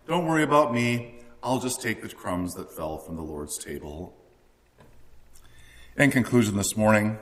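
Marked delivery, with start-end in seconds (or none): 0.1-4.1 mock meek. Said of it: "we act like powerless weenies".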